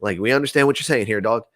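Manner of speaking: chill entity voice. Retold or imitated. Entities answer the friend.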